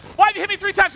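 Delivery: high, loud donkey protest; complaining donkey. Retold or imitated. Donkey questioning its master over the beatings, mock-indignant. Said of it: "Doc says".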